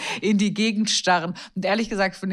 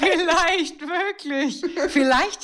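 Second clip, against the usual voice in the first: slow, high, laughing; 11 semitones higher, much slower than usual. Real, not acted. Co-host laughing along at the joke, slow high giggle. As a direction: stretch it out through laughter.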